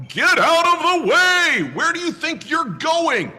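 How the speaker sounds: loud high angry yell. Acted. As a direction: shout at the geese in the way. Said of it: "Ralph yelled".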